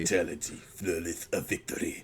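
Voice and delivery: low, soft, echoing announcer; a quiet, low, echoing announcer; echoing voice inside helmet. Retold or imitated. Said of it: "We say all those things".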